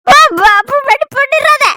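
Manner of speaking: high, slow pleading through a gag; muffled begging to her sister. Acted. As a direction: beg her through a covered mouth. Gagged pleading.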